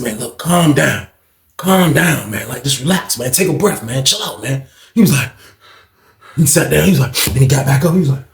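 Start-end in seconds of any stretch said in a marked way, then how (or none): 0.0-4.7 talking a cellmate down, easy and soft; calming him down. Retold or imitated. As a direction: talk him down gently. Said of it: "I'm trying to calm him down".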